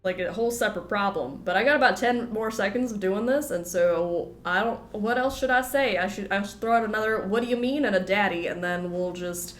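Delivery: lightly done Southern twang, stuffed up; put-on Southern accent. Streamer chatting over the game, put-on Southern accent. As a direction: hold a put-on Southern accent through a head cold. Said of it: "get out of this accent".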